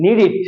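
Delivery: নিড ইট with a short i in the last syllable; corrected pronunciation. Shown as a demonstration. Teacher corrects the class's past tense of need, corrected pronunciation. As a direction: end নিড ইট in -it, not -ed. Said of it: "একারকে রসিকার বানাও".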